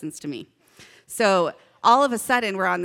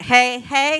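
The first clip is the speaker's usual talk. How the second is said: loud, higher call with a rising end; 4 semitones higher, 6 dB louder than usual. Shown as a demonstration. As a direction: cue the crowd to answer. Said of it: "So let's try it".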